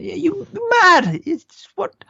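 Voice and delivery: high, loud incredulous squeak; mock outrage at a bad order; mock disbelief. Mocking Dyke's flank order.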